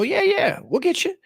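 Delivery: a high, sneering mock of a slave owner; sing-song taunting, like a cocky master; smug plantation owner mock. Slave owner taunting the rebels, high mocking sneer. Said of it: "they just go".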